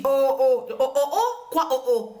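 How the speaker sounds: exclamations plus fortes, voix changée; voisin qui proteste. Retold or imitated. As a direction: imiter le voisin qui s'offusque. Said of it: "me dit". (un léger « oh » outré du voisin)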